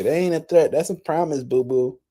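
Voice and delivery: a sassy, taunting mock of the quote; sing-song the threat back like a petty girl; lightly voiced petty mocking girl; mocking ratchet voice. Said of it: "like a little ratchet bitch to say".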